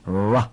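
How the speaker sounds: ra with the tongue curled back, no trill; ra with a retroflex r. Shown as a demonstration. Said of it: "卷舌".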